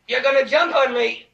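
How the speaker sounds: contained fearful accusation; subdued dread. Acted. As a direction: say it small, before the panic hits. First, subdued fearful realization.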